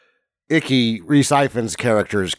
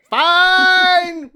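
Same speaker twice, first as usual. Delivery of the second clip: squeaky grudging "fine"; a high, hammed-up giving in; high mock voice; 3 dB louder than usual. And he's like, retold reply.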